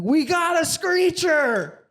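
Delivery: very high, slow drawn-out shout; teen mocking across the gym, high and slow; yelled taunt. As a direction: call it across the room, stretched high. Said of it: "He's like".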